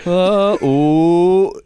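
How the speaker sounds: loud, high gasping "uh, oh"; crowd gasp. Retold or imitated. Whole crowd gasping as Willie stumbles down the steps. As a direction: gasp like a crowd watching a fall.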